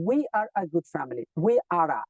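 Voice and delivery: we are a good family said slowly; slow example. Shown as a demonstration. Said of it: "এখানে article".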